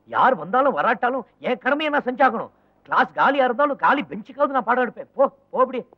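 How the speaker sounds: pompous declaration. Acted. Lecturer declares duty grandly.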